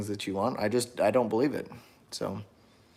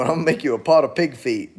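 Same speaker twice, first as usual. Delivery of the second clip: hillbilly voice; 3 semitones higher, 4 dB louder than usual. Acted. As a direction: read it like a rural Southern hillbilly from an old sitcom. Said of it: "you sound like the, uh, the Beverly Hillbillies".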